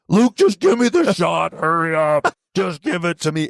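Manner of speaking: hammed-up urgent begging; desperate plea. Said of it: "And he is just".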